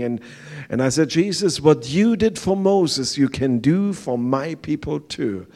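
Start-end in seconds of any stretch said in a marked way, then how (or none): 1.1-5.5 raised, ringing plea to Jesus; loud retold prayer. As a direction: call it out like a bold prayer. Prays aloud at the wall.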